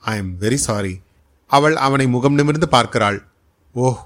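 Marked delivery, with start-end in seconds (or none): 0.0-0.9 hushed and low, almost a whisper; like a secret. Acted. He says sorry to her in the rain, softly hushed. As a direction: confide it softly, as if sharing a secret. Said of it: "ரகசியம் போல் கூறுகிறான்".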